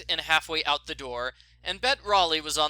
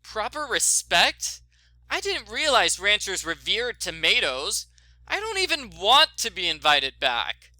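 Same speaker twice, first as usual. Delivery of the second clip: indignant; 4 semitones higher, 5 dB louder than usual. Acted. Nancy firing back at Bet on the phone, indignant and louder. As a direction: bristle at the insult. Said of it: "Nancy was indignant".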